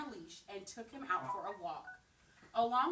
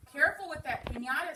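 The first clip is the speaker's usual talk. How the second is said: higher, louder mock warning; yelling; 6 semitones higher, 8 dB louder, faster than usual. A narrator's reading. Samson warning friends racing downhill, yelling. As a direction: call it out down the hill. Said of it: "Samson yelled".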